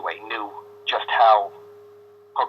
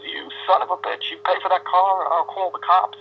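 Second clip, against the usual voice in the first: angry father; 8 semitones higher than usual. Retold or imitated. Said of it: "my father goes over and he goes".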